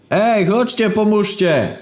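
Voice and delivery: high-pitched plea from the car; calling out. Acted. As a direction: shout up to the balcony in a high voice.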